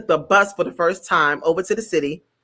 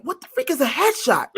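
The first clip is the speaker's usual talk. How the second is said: laughing confusion; 7 semitones higher, 4 dB quieter than usual. Retold or imitated. Her confused thought, laughing.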